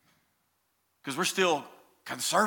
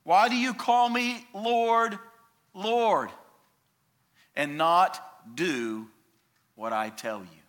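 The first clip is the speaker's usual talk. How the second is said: raised, pleading question that sinks at the end; voicing Jesus; 4 semitones higher, 3 dB louder than usual. Preacher voicing Jesus asking his followers, searching. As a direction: ask it as Jesus would, searching. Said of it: "He says this".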